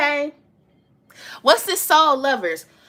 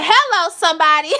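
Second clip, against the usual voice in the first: loud, playful call, then a laugh; a cheeky shout-out ending in laughter; 6 semitones higher, 4 dB louder than usual. Real, not acted. Laughs about wanting a G-Wagon.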